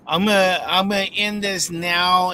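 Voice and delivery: robot voice. Real, not acted. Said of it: "we got robot voice back".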